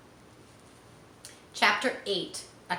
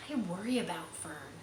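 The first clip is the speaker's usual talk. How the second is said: softer, hushed worried mother; very low voice; 8 dB quieter than usual. Acted. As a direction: keep it down so Fern won't hear. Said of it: "spoke in a very low voice".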